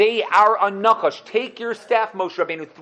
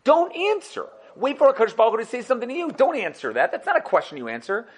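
exasperated rebuke, pitch jumping way up on the outbursts; Medrash goes crazy; 3 semitones higher than usual. Retold or imitated. Teacher voicing the Medrash scolding Bilam, exasperated. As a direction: scold Bilam like he's a fool, voice spiking. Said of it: "And the Medrash goes crazy".

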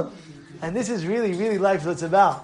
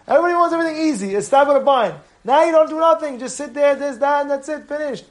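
fast, higher mocking of the lazy; mocking rant; 6 semitones higher, faster than usual. Rabbi mocking students who want everything easy. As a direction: scoff at people wanting it easy.

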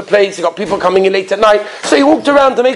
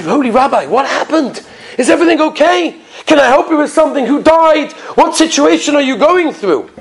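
higher, urgent run of worried questions; acted-out anxious innkeeper, pitch climbing; alarmed concern; 5 semitones higher than usual. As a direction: ask with mounting alarm, voice raised in pitch. Innkeeper's alarmed questions to the weeping rabbi.

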